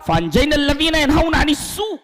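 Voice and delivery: high, fast, ringing recitation of the verse; fervent Quranic recitation. Acted. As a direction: call the verse out with fervour, fast.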